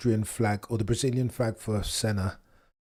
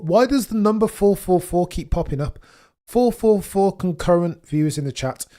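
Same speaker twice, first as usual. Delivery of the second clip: amazed; 7 semitones higher, 5 dB louder than usual. Real, not acted. Spotting 444 viewers again.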